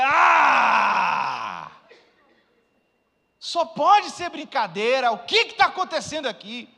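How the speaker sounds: high, loud, slow outraged yell; outraged shout. Retold or imitated. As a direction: explode at the insurance refusal. Retold outrage at insurance denial. (grito indignado, alto e lento)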